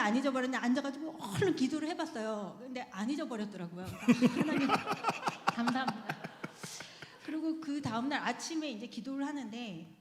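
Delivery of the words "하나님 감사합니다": laughing thanks. Real, not acted.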